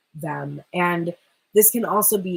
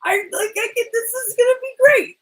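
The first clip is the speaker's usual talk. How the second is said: high excited self-pep talk, louder; overexcited suitor psyching himself up; working himself up; 5 dB louder than usual. Acted. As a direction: hype yourself up, voice climbing. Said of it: "he's kinda, like, working himself up".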